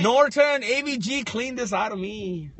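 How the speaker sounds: mock plea. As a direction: beg the antivirus in jest. Joking plea to antivirus.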